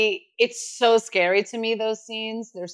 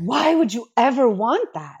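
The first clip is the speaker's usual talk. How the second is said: mock horrified moms; 3 semitones higher, 3 dB louder than usual. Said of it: "And they were horrified".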